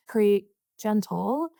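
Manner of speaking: "gentle" slowed down for emphasis; stress on gentle. Real, not acted. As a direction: draw out "gentle" so it stands out. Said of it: "an emphasis on gentle".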